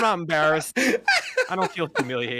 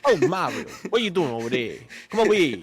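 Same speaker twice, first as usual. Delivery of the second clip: a hint of high Italian accent; movie Luigi voice; 5 semitones higher than usual. Calling Mario over to the pipes, lightly accented. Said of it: "What are you, the Super Mario Bros movie?".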